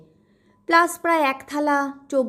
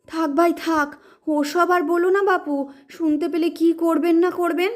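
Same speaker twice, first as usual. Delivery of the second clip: hasty hushing; 4 semitones higher than usual. Acted. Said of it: "তাড়াতাড়ি বলে ওঠে".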